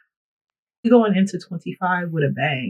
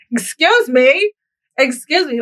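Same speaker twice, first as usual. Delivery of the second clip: shocked excuse me; 8 semitones higher, 4 dB louder, slower than usual. Retold or imitated. Reacting to being touched.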